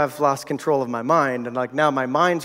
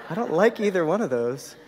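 laughing; 3 semitones higher than usual. Real, not acted. Joking reply to the doctor.

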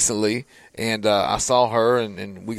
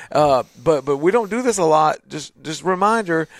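higher, mock scolding voice of his own body; body's voice; 3 semitones higher than usual. Host voices his body complaining mid-run, mock scolding and higher. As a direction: play your tired body teasing you for running. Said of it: "my body is screaming at me".

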